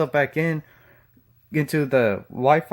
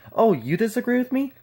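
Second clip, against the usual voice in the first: mocking whine; 5 semitones higher than usual. Mocking refrain, imitating opponents.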